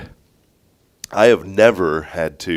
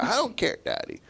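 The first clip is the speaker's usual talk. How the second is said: imitating screaming child; 13 semitones higher, 7 dB quieter than usual. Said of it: "And she was screaming".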